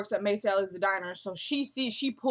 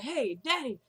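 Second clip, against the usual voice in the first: put-on higher-pitched call in a light southern accent; little southern accent; 4 semitones higher than usual. Brody running out after his daddy, light southern accent. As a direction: mimic a southern son hailing his father. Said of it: "with the little southern accent".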